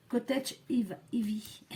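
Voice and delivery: English name in a French accent. Real, not acted. Crafter reads out an ink colour name, French accent. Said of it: "avec mon accent".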